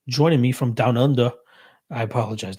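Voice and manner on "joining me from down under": badly faked Australian lilt; horrible Australian accent. Host shouts out a viewer from down under, bad Australian accent. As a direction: put on a clumsy, hammed-up Aussie accent. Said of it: "That was a horrible Australian accent".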